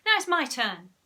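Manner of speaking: put-on sulky childish demand; sourly, pouting a bit. A narrator's reading. Susan sourly claims her turn from Margaret. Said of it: "said Susan sourly".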